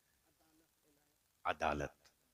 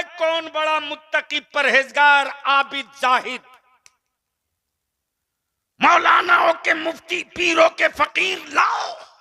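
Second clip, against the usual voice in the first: high, loud, defiant challenge; challenging shout; 12 semitones higher, 8 dB louder than usual. Retold or imitated. Balliya's challenge shouted to the crowd, high and loud. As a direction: dare them to bring anyone. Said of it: "Ballia भी कहता है".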